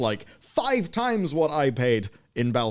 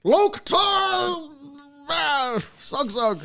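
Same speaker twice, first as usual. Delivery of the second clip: orc voice; 3 dB louder, much slower than usual. Pretend. Orc voice, named as orcs.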